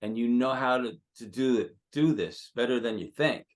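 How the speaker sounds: emphatic, animated pep talk; getting excited while coaching; real excitement. Real, not acted. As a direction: fire up the performer, driving the words home. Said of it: "I'm getting kind of excited now".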